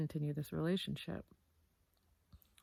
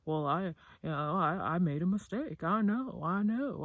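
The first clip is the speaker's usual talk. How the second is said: mock defensive; 4 dB louder than usual. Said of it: "he was getting so defensive".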